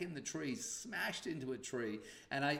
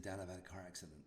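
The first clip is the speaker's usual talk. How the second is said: shocked; 4 semitones lower, 10 dB quieter, faster than usual. Retold or imitated. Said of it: "he's, like, really shocked".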